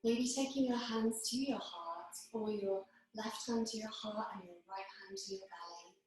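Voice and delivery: measured phrases with long, calm pauses; guided meditation. Acted. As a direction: gently guide them into their breath, unhurried. Leads a breathing meditation.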